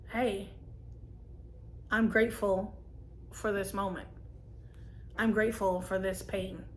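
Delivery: gentle self-talk, pausing to let each phrase settle; calm gratitude. Shown as a demonstration. Showing what to tell yourself, calmly grateful.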